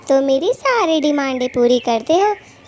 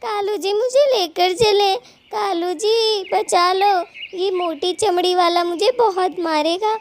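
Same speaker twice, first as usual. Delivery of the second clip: desperate pleading; 3 semitones higher than usual. Acted. Wife pleading with Kalu as he flees, frantic. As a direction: beg him not to run off and leave you. Abandoned wife begging husband not leave.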